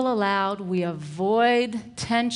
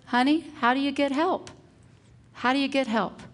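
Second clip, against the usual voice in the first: put-on higher, sing-song prompting of a child; coaxing principal; 5 semitones higher than usual. Principal asking an upset little girl, gentle coaxing.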